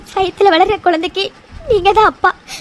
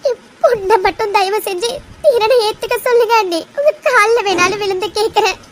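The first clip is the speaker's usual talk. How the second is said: tearful begging; 2 semitones higher than usual. Acted. Mother pleading with her sister-in-law to accept her daughter, crying. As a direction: beg through tears for her daughter.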